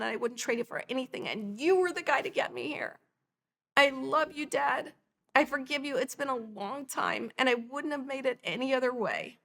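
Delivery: heartfelt forgiveness. Retold or imitated. Retold heartfelt forgiveness of her father.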